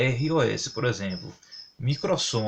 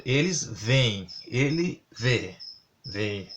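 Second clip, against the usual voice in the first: slow example words; much slower than usual. Shown as a demonstration. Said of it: "no caso".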